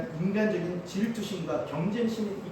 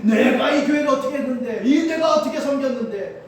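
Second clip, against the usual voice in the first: louder, higher imitation of an aggrieved member; indignant complaint; 6 semitones higher, 7 dB louder than usual. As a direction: protest your service, voice raised. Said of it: "또 그러는 거예요". (억울하다는 듯 높은 목소리로)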